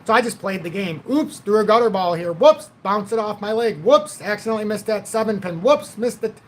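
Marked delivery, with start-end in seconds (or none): 1.1-6.4 playing the fake bumbler, innocent and light; mock-innocent whoops; mock clumsy. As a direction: act out sandbagging with fake oopses. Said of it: "you know, kind of thing".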